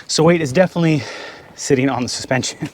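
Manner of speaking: talking while out of breath; winded from crawling under the truck. Real, not acted. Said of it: "Tell I'm out of breath".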